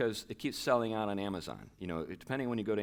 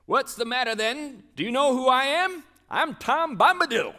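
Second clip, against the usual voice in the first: put-on high, loud jolly old man calling; cried the old man; 12 dB louder than usual. Tom calming the panicked hobbits, high loud jolly call. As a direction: boom it out like a merry old fellow. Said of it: "he rhymes a lot".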